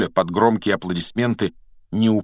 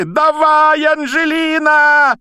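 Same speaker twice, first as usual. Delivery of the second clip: loud, high cheering yell; cheering shout; 8 dB louder, much slower than usual. Acted. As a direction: scream her on toward goal. Commentator cheering at goal chance.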